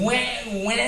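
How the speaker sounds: high, drawn-out American twang; wordless stereotype of American speech; mock American twang. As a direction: caricature American vowels with a wide-open mouth. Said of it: "they always sound like they're saying".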